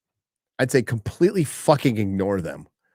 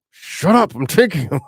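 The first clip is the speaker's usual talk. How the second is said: mock wife; 3 semitones higher, 4 dB louder than usual. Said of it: "she's like".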